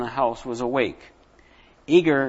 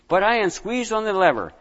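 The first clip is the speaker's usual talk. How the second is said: building tension; 6 semitones higher than usual. A narrator's reading. Pressure mounts toward burst.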